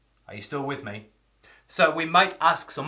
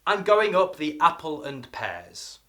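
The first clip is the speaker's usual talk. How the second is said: Cockney rhyming slang; 2 semitones higher, 6 dB louder than usual. Shown as a demonstration. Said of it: "For example".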